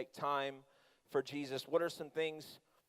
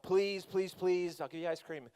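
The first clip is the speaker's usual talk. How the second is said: pleading; slower than usual. Retold or imitated. Dad begging daughter on the ride.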